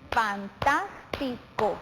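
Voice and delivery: "Fantástico" slowly split into syllables, fan-tás-ti-co. Shown as a demonstration. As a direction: say "Fantástico" in four separate, drawn-out beats. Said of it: "la separación en sílabas".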